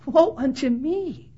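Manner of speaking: slow, softened self-reproach; imitated penitent lament; humble confession. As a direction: confess it slowly, turned on yourself. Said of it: "rather than a whole lot of guys last night saying".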